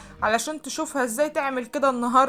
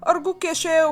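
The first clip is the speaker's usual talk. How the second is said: high, raised-voice appeal; desperate pleading; 7 semitones higher, 5 dB louder than usual. A narrator's reading. Woman grabbing the boss's hand, desperate pleading. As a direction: implore him urgently. Pushed away, she begs him again.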